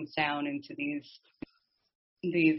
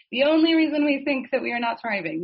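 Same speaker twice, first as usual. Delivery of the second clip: emphatic; 7 semitones higher, 6 dB louder than usual. Real, not acted. Emphatic teaching point.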